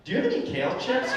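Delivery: mock preppy white guy asking for a snack; white boy voice. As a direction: doing the white boy voice for his friends. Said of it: "do the voice".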